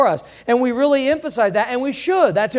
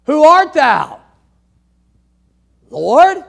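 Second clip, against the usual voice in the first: awed question; 4 semitones higher, 7 dB louder, slower than usual. Acted. Saul asks, repeated.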